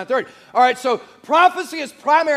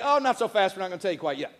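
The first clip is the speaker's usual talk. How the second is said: teasing hold-back; 5 semitones lower, 6 dB quieter, faster than usual. Acted. Acting out the withheld reveal.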